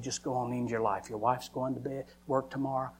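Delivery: low, quiet coaxing Satan; quiet, insinuating tempter; Satan tempting. Acted. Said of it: "Satan said".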